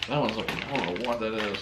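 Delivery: talking through a stinging nose; reacting to a burning smell. Real, not acted. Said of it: "my nose is burning".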